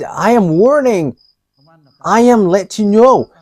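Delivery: a hint of an angry spirit's warning; retold angry warning. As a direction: lean into the threat a little. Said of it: "he's with great anger".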